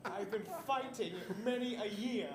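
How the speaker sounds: put-on slow old warrior voice.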